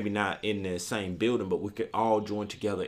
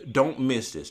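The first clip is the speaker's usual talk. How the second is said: firm emphasis; 4 dB louder than usual. Shown as a demonstration. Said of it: "please just focus in on this".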